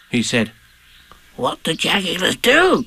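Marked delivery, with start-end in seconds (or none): 1.4-2.9 slow, high, anxious question; nervous little creature; Piglet's voice. Acted. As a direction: ask timidly, dragging it out. Nervous Piglet asks Pooh.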